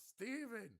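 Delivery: very high, loud yelled name; shouted name. Retold or imitated. Guy shouting his name across ships, high yell. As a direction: call the name out far. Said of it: "The other guy goes".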